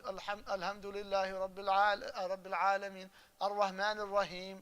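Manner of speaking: "alhamdulillahi" and "ar-Rahman" with a plain English h; mispronounced ha. Retold or imitated. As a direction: imitate an accented recitation, ha softened to h. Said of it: "They're saying the ha as a ha".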